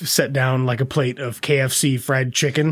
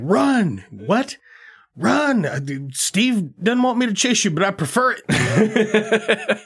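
gleeful high yell; 7 semitones higher, slower than usual. Retold or imitated. Hitman chasing, yelling gleefully.

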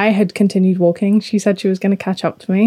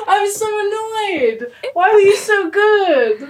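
mock annoyed; 10 semitones higher, slower than usual. Real, not acted. Mock annoyance after losing game.

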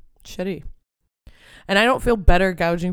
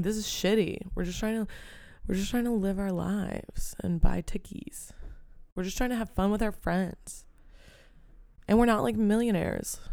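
hushed plea; 2 semitones higher, 5 dB quieter than usual. Retold or imitated. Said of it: "I'm like".

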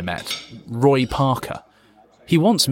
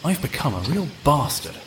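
inner monologue. Acted. Fitz reproaching himself alone, thoughtful inner monologue.

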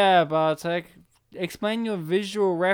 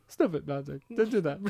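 lightly voiced accented mother scolding; a hint of a scolding mum with an accent; imitated mum. Imitating co-host's mum telling him off, mock scolding. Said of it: "Just make me think of your mum saying it".

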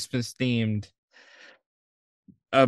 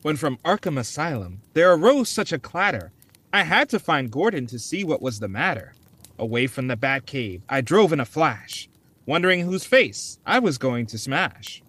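story reading. Acted. Reads Christmas poem aloud.

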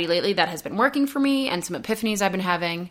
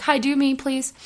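pleading chores; 5 semitones higher than usual. Pretend. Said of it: "the things I wanted to do were just like".

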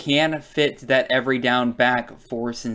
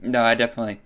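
choking on water; 3 semitones lower, faster than usual. Real, not acted. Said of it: "started choking on water there".

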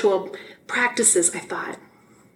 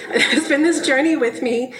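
laughing through tears; 4 semitones higher than usual. Real, not acted. First talk as reverend, laughing through tears. Tearful laugh after near crying.

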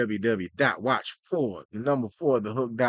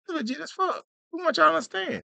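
much higher and emphatic; excited high emphasis; much faster than usual. Shown as a demonstration. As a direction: punch it up high and proud. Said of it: "abbreviated then said in full".

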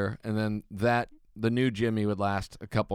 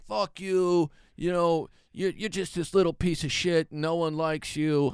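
mock angry insult; 7 semitones higher, slower than usual. Joey yelling in the hallway.

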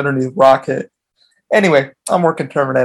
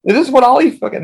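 shocked techs; 10 semitones higher than usual. Retold or imitated. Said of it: "the techs are like".

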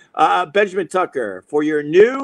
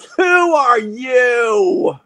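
slow, drawn-out mock shout, a bit higher; retold scream; 7 semitones higher, much slower than usual. Shouting back at the yelling lady, mock shout. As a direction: call it out across the street. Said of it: "I just screamed to her".

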